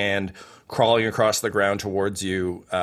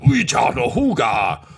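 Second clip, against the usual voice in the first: snarl; 4 dB louder than usual. Acted. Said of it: "just kind of snarls".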